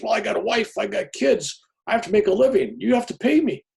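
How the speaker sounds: high, loud, pleading whine for money; whiny fake priest. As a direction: plead like a hustler with kids to feed.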